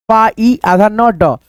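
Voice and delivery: पा ई आधा न ड split into parts, slowly; slow teacher's syllable breakdown; slow sounding out. Shown as a demonstration. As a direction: spell पा ई आधा न ड out slowly, piece by piece. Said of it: "sounding out फाइंड slowly".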